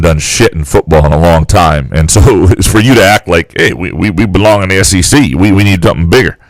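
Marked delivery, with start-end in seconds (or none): 3.6-6.4 put-on Southern accent. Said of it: "Is that your Southern accent?".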